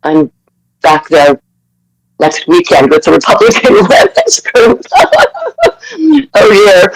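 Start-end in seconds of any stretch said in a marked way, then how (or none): 4.9-5.7 high, amused laugh; a cheeky high laugh. Real, not acted. Laughs about going back.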